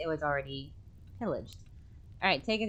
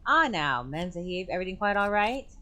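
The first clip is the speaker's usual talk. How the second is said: a hint of a colonial officer, quick at the end; mild old British officer voice; lightly voiced old major. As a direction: bluster in politely. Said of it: "Major cabin doors open".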